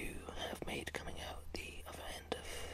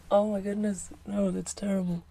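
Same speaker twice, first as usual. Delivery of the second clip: tag; 15 dB louder than usual. Real, not acted. Cracking up at own bad accent.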